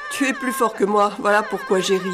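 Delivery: speaking through laughter; laughing. Acted. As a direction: let the laugh spill into the words. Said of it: "dit-il, riant encore".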